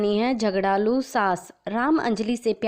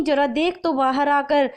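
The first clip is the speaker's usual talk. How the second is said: higher, louder angry mother voice; angry mother yelling; 6 semitones higher, 4 dB louder than usual. A narrator's reading. Lata calls her daughter out in anger, yelling. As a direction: scold loudly so the whole house hears. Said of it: "लता ज़ोर से चिल्लाती है".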